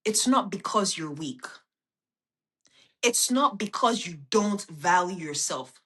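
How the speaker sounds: deliberate, measured, every word placed; slow it right down so it sinks in; said very slowly. Shown as a demonstration. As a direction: spell it out slowly for a struggling friend. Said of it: "I'm gonna say it very slowly".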